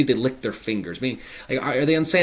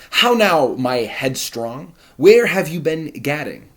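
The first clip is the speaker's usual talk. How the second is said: loud, high, stern rebuke; scolding father; 5 semitones higher, 7 dB louder, slower than usual. Acted. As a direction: scold the headstrong daughter.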